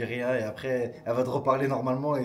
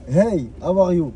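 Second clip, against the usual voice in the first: Hey, how are you said slowly and carefully; slow example; 2 semitones higher, 7 dB louder, much slower than usual. Shown as a demonstration. Husband shows his wife how English sounds, slow and careful. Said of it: "par exemple, je te dis".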